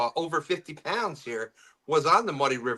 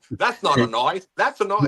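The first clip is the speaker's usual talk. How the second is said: hammed-up Aussie, second phrase higher; mock Australian accent; 3 semitones higher, 4 dB louder than usual. Joking about Americans imitating Australians, mock Australian accent. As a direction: put on an Australian accent, punching the comeback. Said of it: "everybody's gotta try to do the accent".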